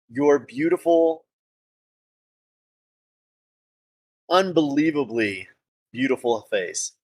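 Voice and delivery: measured courtly flattery, with pauses for effect; flattering gallant. Acted. Player flattering a lady's beautiful face, courtly and deliberate. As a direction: woo the lady with grand, deliberate praise.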